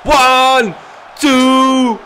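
high, loud ring-announcer shout; shouting a count and a wrestler's name to fans; hype shout. Real, not acted. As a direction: pump up the crowd like an announcer. Hyping his wrestler's entrance.

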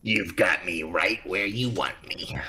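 slow, low seductive purr; flirty. Acted. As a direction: tease like a seducer. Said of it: "Sweetheart, we're in public".

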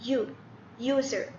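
USER sounded out with a clear "yoo" start; pronunciation demo. Shown as a demonstration. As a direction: say "user" so the opening "yoo" is easy to hear. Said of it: "أسمع نطقه".

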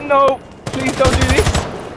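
high, slow put-on plea; mock begging. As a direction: whine out a hammed-up plea.

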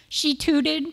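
"tutored" as "tud", Boston accent. Shown as a demonstration. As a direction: drop the r in "tutored", Boston style. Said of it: "that's my Boston accent".

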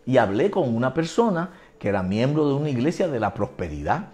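usual speaking voice

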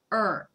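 "う" said as a tensed English r, tongue cupped; R sound demo. Shown as a demonstration. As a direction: hold the tongue back and voice a strained "う". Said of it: "どんな感じでしたら". (舌を力ませた英語のrの「う」)

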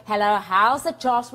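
relaxed South African hello; casual greeting. Shown as a demonstration. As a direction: greet a friend easily. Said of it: "And we go".

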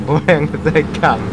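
excited. Real, not acted. Laughing at their car crash.

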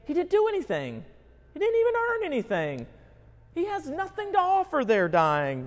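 high, fast, indignant protest; mock indignant objection. Preacher voicing a listener who protests that the criminal earned nothing, in high, fast mock outrage. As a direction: pitch it up and rush it like an outraged objector. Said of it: "But you say".

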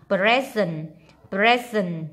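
"Present" with a clear z in the middle. Shown as a demonstration. Teacher models "present" for students, s as z. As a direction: say "present" twice, s voiced as z. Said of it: "giờ".

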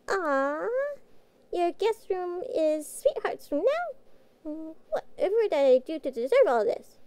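choked up and touched, voice wobbling; moved almost to tears; teary. Acted. Touched by gift of a room.

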